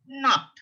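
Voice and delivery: high "Not" with clear n and ah vowel; sounded N. Shown as a demonstration. Teacher demonstrates N sound for learners, sounded N. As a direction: land firmly on "Not", said as naht. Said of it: "It's produced N sound".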